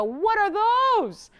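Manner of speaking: a light high, slow mock-amazed viewer; imitating new viewers. New viewers just tuning in, gasping at the earrings, lightly voiced. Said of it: "is gonna go".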